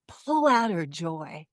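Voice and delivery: repeated divine command rising to a loud urgent call; building command. Retold or imitated. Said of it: "what I sense from Holy Spirit is this".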